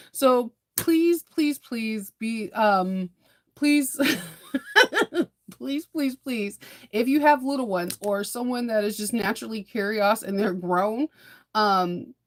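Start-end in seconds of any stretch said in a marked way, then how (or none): 0.1-10.2 drawn-out pleading please; slow pleading request to parents. Real, not acted. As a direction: beg them, half laughing. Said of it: "begging viewers".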